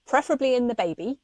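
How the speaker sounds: quick, lifted aside with a rising end; pointed aside. Real, not acted. Adding where the blood should be, quick pointed aside. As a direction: toss in the correction briskly and brightly. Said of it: "Let's just say that".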